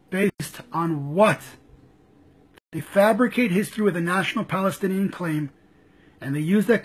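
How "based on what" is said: "Based on what?" drawn out slowly, each word weighted; slow down and press "what"; slow, pointed. Real, not acted. Demanding proof from the left, slow and pointed.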